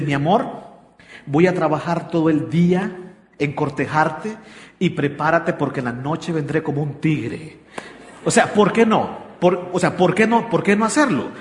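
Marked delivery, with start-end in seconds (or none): 0.0-7.6 flirty promise. Retold or imitated. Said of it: "un hombre se toma el tiempo en la mañana de decirle".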